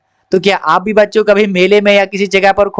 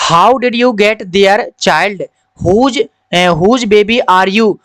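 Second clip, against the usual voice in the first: slow reading of the man's question; the teacher reads the stranger asking the lost child; story reading; much slower than usual. Acted. Slow, mild read of a kind stranger.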